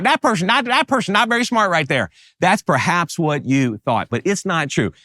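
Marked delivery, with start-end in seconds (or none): 0.0-2.1 high-pitched condescending judgment; mock dismissive onlooker; looking down on someone. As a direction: voice a snap judgment, pitched well up. Voices a viewer's dismissive thought.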